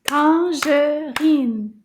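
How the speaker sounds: "Tangerine" slow, in separate beats; syllable by syllable. Shown as a demonstration. Teacher counting syllables with children, "Tangerine" in slow firm beats. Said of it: "Let's clap".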